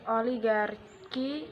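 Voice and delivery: Oligarki slowly, like English oligarchy; English pronunciation. Shown as a demonstration. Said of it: "Arki dalam bahasa Inggris". (Oligarki dengan lafal Inggris, pelan)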